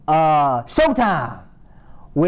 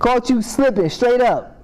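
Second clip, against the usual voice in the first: gloating taunt; 7 semitones higher than usual. Acted. Gloating at Samson's capture.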